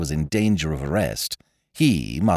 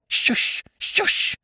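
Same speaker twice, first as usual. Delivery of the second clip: urgent hushing whisper through a keyhole; whispered shush from behind the door; scandalized whisper. A narrator's reading. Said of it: "came a scandalized whisper through the keyhole".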